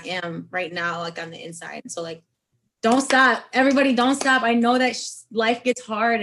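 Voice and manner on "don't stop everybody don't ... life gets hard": louder and higher, pleading with everyone; urgent appeal. Real, not acted. Host urging struggling listeners, loud heartfelt plea. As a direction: call out to every listener not to give up.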